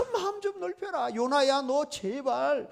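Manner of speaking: high-pitched, pleading rebuke in God's role; acted exasperated divine reprimand; God scolding. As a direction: scold a stubborn servant, imploring him to change. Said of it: "이거 하나님께서".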